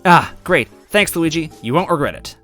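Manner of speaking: cheerful. Acted. Goombella thanks cheerfully.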